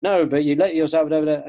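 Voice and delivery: lightly acted pestering voice; nagging snake voice. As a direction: butt in with nagging complaint. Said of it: "the snake voice".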